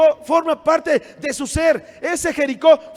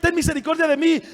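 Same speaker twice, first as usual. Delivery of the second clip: shouting out. Retold or imitated. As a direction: shout to Jesus from the roadside. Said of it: "le gritaba".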